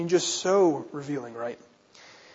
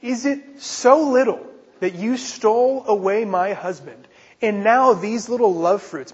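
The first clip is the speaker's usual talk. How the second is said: spiteful; 4 semitones higher, 3 dB louder than usual. Retold or imitated. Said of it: "the spite in Leah's comment".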